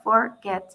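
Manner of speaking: "forget" broken into two beats, for, get; split into syllables. Shown as a demonstration. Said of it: "lo podemos dividir en dos sílabas".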